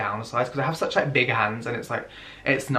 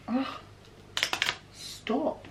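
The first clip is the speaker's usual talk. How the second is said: whispered plea; 12 semitones higher, 10 dB quieter than usual. Real, not acted. Protector misbehaves.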